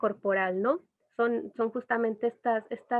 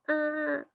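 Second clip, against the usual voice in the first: put-on baby coo; 5 semitones higher than usual. Shown as a demonstration. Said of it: "Normalmente hace ruiditos como".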